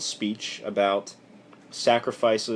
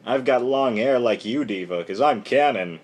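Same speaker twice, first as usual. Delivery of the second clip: mock hissy fit; 3 dB louder than usual. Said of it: "Cannon throwing a little hissy fit".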